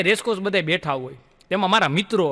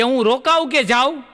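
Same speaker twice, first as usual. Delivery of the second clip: louder called-out question; hollering from outside the house; mock shout; 4 semitones higher, 5 dB louder than usual. Beggar outside shouts to the mother, mock yell. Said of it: "એને રાડ પાડી કે".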